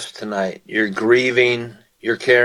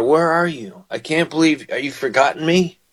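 higher, pleading questions; crying out to God; 5 semitones higher than usual. Retold or imitated. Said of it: "you've said some of these same things to God".

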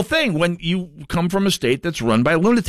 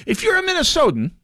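higher, mocking singsong Minnesotan voice. Host mocking Minnesotans who moved away, higher mock voice. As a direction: lampoon the embarrassed ex-Minnesotan.

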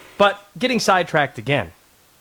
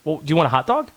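rising, eager, friendly host voice, climbing higher; mock-excited tailgate hosts calling to a guest; welcoming Southern fans; 11 semitones higher than usual. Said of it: "they were like".

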